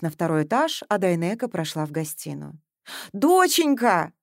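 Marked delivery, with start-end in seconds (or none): 3.1-4.1 higher, louder cry of relief; mother exclaims on seeing her daughter; exclaiming. A narrator's reading. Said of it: "воскликнула".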